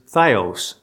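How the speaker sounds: theos as THIGH-ohs; pronunciation of theos. Shown as a demonstration. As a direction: slowly say "theos" with a long "eye" first. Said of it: "those three different Greek words".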